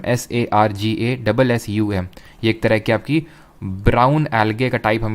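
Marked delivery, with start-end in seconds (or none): 0.0-2.1 letter by letter, slow and clear; spelled out slowly. Shown as a demonstration. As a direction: spell it out slowly for the class to note down. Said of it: "जिसको बोलते हैं सरगैसम".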